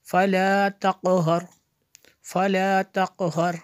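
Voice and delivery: measured, resonant teaching recitation; word-by-word recitation. Shown as a demonstration. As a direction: chant each word separately with held vowels. (एक-एक लफ़्ज़ लय में पढ़ना)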